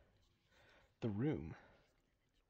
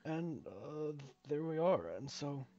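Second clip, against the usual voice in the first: lightly voiced game character explaining the job; a hint of a halting, polite foreman; hesitant mine worker. Reads mine worker's explanation aloud.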